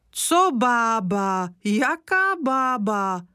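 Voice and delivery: put-on slow, indignant old woman's voice; offended old woman snapping back at grandpa; sharp retort. A narrator's reading. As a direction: bristle at being called old. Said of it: "ozvala se ostře Kořínková".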